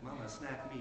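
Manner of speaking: put-on soft, cute little-girl ask; lightly voiced cute toddler; cute toddler request. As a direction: murmur it sweetly like a small child. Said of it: "And it's really cute".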